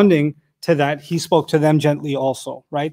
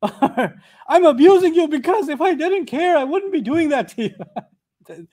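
higher, slow, half-laughing caricature; mock abuser; 8 semitones higher, slower than usual. Teacher mocks an abuser's excuse, slow and half laughing. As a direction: ham up the twisted logic, slowly. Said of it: "Some people are very abusive".

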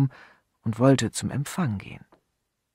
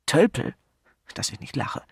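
scornful; 3 semitones higher, 4 dB louder than usual. Acted. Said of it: "seine übliche gewählte Ausdrucksweise vergessend".

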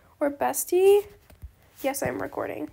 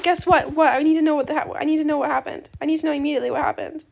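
reading chat excitedly; 4 dB louder than usual. Retold or imitated. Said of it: "They said".

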